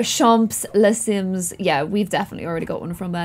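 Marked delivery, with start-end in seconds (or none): 0.0-1.5 slow, drawn-out mock French accent; clumsy French accent, said slowly; bad French accent. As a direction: put on a badly butchered French accent. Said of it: "That was the worst French accent ever".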